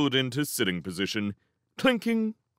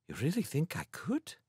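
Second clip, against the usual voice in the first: soft, high, wondering question; hushed, tentative hope; hopeful disbelief; 6 semitones higher, 8 dB quieter than usual. Acted. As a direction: ask shyly, hardly daring to believe it. Doubts he could succeed.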